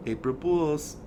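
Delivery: high little imitation of the wife; teasing prank reveal. Wife finally reveals the prank to him, teasing. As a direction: mimic a prankster's gotcha in a small high voice.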